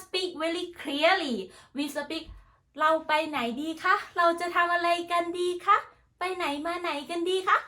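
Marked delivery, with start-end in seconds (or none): 2.8-7.6 Thai questions held on one higher, even note; even Thai intonation. Shown as a demonstration. Thai speaker showing how her language sounds, even higher intonation. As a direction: keep the tune level and light through the Thai questions. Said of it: "It's my sound like this".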